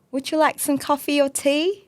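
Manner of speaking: a light posh British accent, offering coffee. Shown as a demonstration. Host asked for a British accent, a light posh British offer. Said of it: "okay, this is the most posh".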